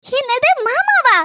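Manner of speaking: slow, drawn-out disbelief; woman stunned the caller calls her father uncle; incredulous. Acted. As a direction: stretch the question in disbelief.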